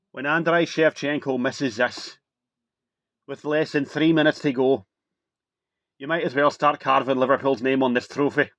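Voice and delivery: put-on a light, half-hearted Scottish accent for the commentator's line; understated Scottish accent, slightly slowed at the start; mock Scottish accent. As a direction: imitate the Scottish pundit lightly, not quite landing it. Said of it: "my Scottish accent is impeccable".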